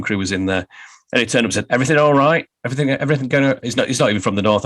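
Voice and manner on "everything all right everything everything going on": mock northern English vowels on an upbeat check-in; a light northern club-man accent, asking if all's well. Vice chairman checking on the film crew, light northern accent. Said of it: "I'm doing a northern accent".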